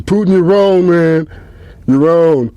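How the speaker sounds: high, loud sideline scolding; mock scolding. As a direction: wag a finger at Putin, loudly.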